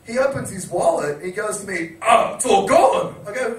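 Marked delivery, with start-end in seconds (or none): 2.0-3.1 slow, louder mock wail; imitated dismay. Friend opening his empty wallet, mock dismay. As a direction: play a drunk mate's drawn-out despair.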